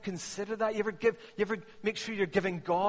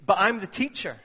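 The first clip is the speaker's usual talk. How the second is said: put-on insistent child; 2 semitones higher, 7 dB louder than usual. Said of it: "And she would say".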